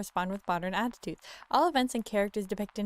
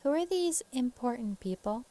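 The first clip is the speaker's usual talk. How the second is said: higher-pitched questioning woman; off-character woman's voice; 4 semitones higher than usual. Acted. Wife questioning the investigator, in the wrong voice. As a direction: miss the Southern lady's voice slightly. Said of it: "that's not her voice".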